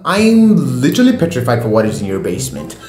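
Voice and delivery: high, outraged disbelief; mock horror at the lyrics; incredulous. Real, not acted.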